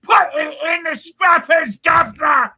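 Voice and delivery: high-pitched, hammed-up Eastern accent; fine Eastern accent. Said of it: "please repeat in a fine Eastern accent".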